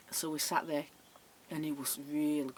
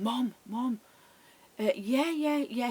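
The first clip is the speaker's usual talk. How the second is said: lightly mimicked son phoning his mother, higher; higher-pitched, mock phone-call voice; imitating date on phone; 5 semitones higher, slower than usual.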